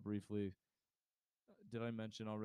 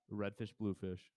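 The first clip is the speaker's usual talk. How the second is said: sultry voice. Shown as a demonstration. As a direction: read it like a seduction. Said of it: "Sexy voice".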